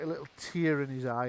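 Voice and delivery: ordinary talk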